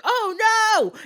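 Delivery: high, drawn-out "oh no" wail; storyteller's exaggerated dismay; mock dismay. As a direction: cry out in hammed-up horror. Retells sister's horror at the drinking.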